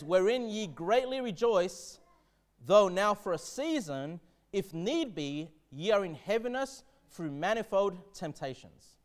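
slow, measured reading of the verse; solemn scripture reading. Acted. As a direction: read it out slowly like holy text.

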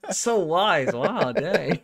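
playfully impressed; mock awe. Real, not acted. Co-host teasing the bald developer, mock awed.

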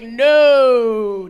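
long, loud drawn-out no; mock-horrified yell; shocked refusal. Comic retelling their reply to friends, shocked refusal.

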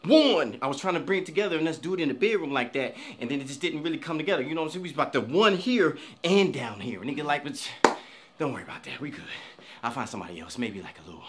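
low and soft, confiding; husband soothes his girlfriend in a low soft aside; hushed aside. Acted. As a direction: murmur reassurance to the girlfriend.

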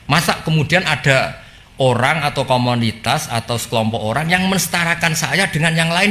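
rising, mildly affronted challenge; offended. Retold or imitated. God challenging those who equate Him with others, offended. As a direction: quote God as if taking offence. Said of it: "Ya Allah tersinggung".

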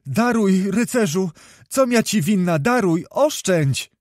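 put-on high-pitched voice of a frightened girl begging; tearful pleading. A narrator's reading. Girl begs the knight to spare her life, tearful high pleading. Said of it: "błagała ze łzami w oczach o życie".

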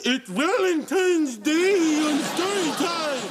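over-the-top host cheer; excited announcement. Acted. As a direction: burst out like a game show host. Host bursts into show announcement.

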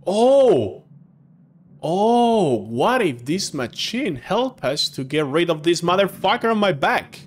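loud, high sudden idea; excited. Real, not acted. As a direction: burst out with the idea.

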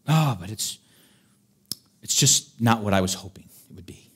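a whiny Israelite, the last line whispered; mock whiny complaint. Israelites whining to Moses about freedom, mock whiny. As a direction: sulk like a let-down crowd.

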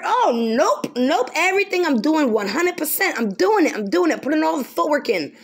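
hint of a shifty believer insisting all is well; mock denial.

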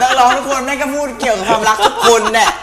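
high-pitched laughing complaint; exasperated, cracking up; laughing protest. Real, not acted. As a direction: protest loudly through laughter. Laughing protest at vague hint.

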